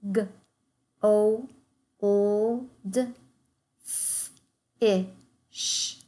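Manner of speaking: N, I, N, T, E, N said as separate sounds; segmenting sounds. Shown as a demonstration. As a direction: sound out nineteen piece by piece. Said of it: "segment the rest of our words".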